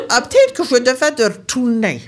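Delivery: laughing through her words; a mother laughing at her failures. Retold or imitated. (mère qui rit en parlant)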